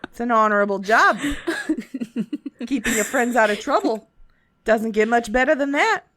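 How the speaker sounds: lightly voiced friendly old shopkeeper; a folksy merchant, easygoing; shopkeeper Schnick Tick.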